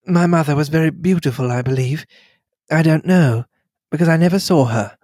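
gently rebuff him with composure; lightly voiced gracious lady setting him straight; lightly voiced poised lady. Mary recalls her youth.

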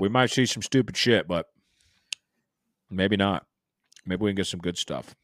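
smacking lips on food mid-sentence; chewing while talking. Real, not acted. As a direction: talk while chewing berries. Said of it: "Sorry, I'm smacking again".

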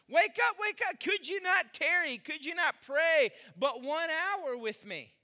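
high, loud call to wake up; Jesus calling sleepy disciples to pray; urgent rebuke. Acted. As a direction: rouse them sharply, then plead.

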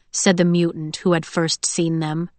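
plain reading voice

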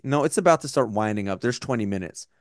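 sober, matter-of-fact retold thought; not joking. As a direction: retell it in earnest, no joke. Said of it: "No, I'm not joking".

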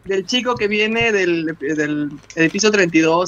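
imitating the cleaner. Lightly voiced cleaning man retelling gossip to the family. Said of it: "Esa manera de narrar".

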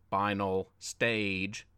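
slow, low announcer voice of a game; computer game voice. Acted. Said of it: "a computerized gaming voice announced".

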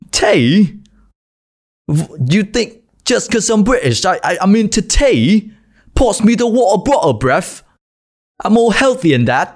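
put-on high, offended British accent with bruv; cheeky Brit insulted by the tea cliché. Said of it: "anh Anh".

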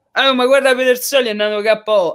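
mocking ignorant fan. Mocking ignorant fans' reaction.

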